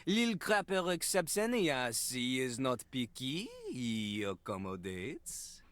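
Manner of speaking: put-on low, smug French-accented talk. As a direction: boast like a vain French rapper. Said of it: "doing a French accent".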